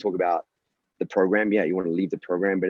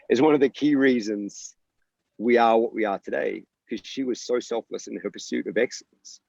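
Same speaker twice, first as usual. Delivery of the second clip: getting emotional; 3 semitones higher than usual. Real, not acted. Coach honouring former athlete, real emotion rising. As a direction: voice lifting as emotion wells up. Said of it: "I'm gonna get emotional".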